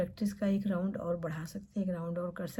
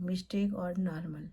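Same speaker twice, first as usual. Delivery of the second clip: teacher reassuring students about mistakes; slow model phrase; much slower than usual. Shown as a demonstration. Teacher modelling slow reassurance. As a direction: draw each word out slowly. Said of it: "Don't worry".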